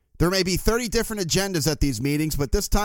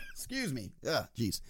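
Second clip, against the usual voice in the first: smoker's rasp; 4 semitones lower, 12 dB quieter than usual. Real, not acted. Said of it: "I sound like I've been smoking cigars".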